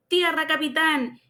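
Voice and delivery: teasing imitation. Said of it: "él se picó".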